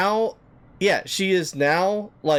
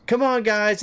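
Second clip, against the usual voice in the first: higher, wheedling call, lightly voiced; imitating drunk woman; 7 semitones higher than usual. Woman calls the friends to dance, mock wheedling. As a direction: coax them like a pushy tipsy stranger. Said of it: "So then she goes".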